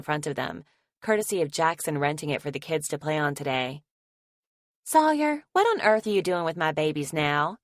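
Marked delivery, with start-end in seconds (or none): 4.8-7.6 yelling from the patio. Acted. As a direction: call him out, half alarmed. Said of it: "Grace yells from the patio".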